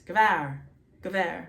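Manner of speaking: GVAR with no vowel between g and v; Aramaic pronunciation demo. Shown as a demonstration. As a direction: run the g straight into the v in GVAR. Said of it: "just the sound of the letter itself, no vowel".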